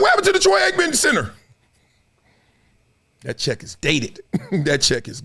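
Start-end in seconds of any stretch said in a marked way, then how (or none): 0.0-1.3 puzzled question. Retold or imitated. Imagined puzzled passerby.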